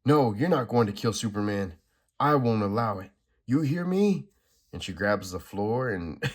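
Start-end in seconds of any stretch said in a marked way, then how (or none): 0.0-4.3 louder, firm refusal rising at the end; defiant heroine. Acted. Supergirl defies the Anti-Monitor to protect Superman, loud. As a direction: stand your ground and shout it.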